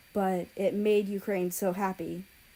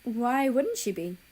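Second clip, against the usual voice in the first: confused; 4 semitones higher than usual. A narrator's reading.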